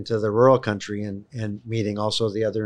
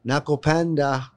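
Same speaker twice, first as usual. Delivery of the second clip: raised, higher mock call; retold yell; 6 semitones higher, 4 dB louder than usual. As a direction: imitate calling lovingly into a cornfield. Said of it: "I would yell out into the cornfield".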